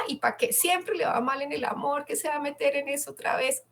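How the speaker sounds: hushed, fast, nagging self-reproach; mock the nagging voice in your head, quick and quiet; scolding inner voice. Inner voice scolding herself for trying, fast hushed nagging. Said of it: "Es una voz regañona".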